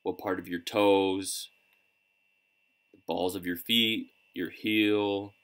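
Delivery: unhurried guidance with long pauses between phrases; calm, measured coaching through breath and body scan; guided meditation. Real, not acted. Coach leading listeners through breathing and a body scan, calm meditation guidance.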